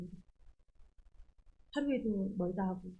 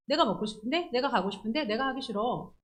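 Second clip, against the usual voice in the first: put-on childish whining; 2 semitones higher than usual. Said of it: "어린애들이 하는 거죠".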